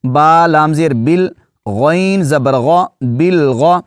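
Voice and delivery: بل غا joined, spelled letter by letter; teacher spelling out بل غا; spelling out syllables. Shown as a demonstration. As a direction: build بل غا syllable by syllable. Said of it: "با کو لام کے ساتھ ملانا ہے".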